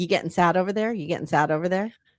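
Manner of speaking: uncaring, offhand, tossed-off tone. Retelling how he asked her while she got emotional: imitating an uncaring tone. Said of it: "no care about her being sad in his tone".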